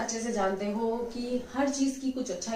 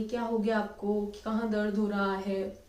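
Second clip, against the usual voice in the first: gentle caring question; 2 semitones lower than usual. Shown as a demonstration. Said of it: "politely प्यार से बोलेंगे".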